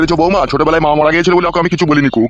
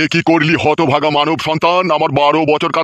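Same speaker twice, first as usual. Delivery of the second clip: wrathful holy man; 2 semitones higher than usual. Acted. Holy man to the man who broke his penance, wrathful rebuke. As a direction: declaim it like an outraged ascetic.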